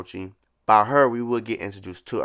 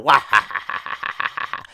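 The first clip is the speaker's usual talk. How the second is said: imitating a girl's wailing laugh, fading to breathy; mock crying laugh; 3 semitones higher, 5 dB louder than usual. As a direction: copy her laugh, which sounds like crying, then let it trail off. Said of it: "she's laughing like".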